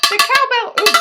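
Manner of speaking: high, excited announcement; excited cry. Real, not acted. Streamer has got the cowbell, high excited cry.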